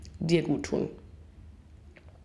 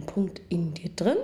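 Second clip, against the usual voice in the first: laughing; 3 semitones lower than usual. Real, not acted. Laughing at own wording.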